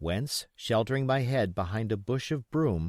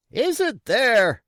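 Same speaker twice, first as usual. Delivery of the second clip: high, loud and slow roar; 13 semitones higher, 10 dB louder, slower than usual. Acted. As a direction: roar the question up. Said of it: "roared Pugh".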